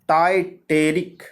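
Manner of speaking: टाइटेरिक said slowly, syllable by syllable, rising at the end; slow careful pronunciation. Shown as a demonstration. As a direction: draw out टाइटेरिक slowly for the class. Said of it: "देखिए word का उच्चारण कीजिए". (टाइटेरिक धीरे-धीरे, साफ़ उच्चारण)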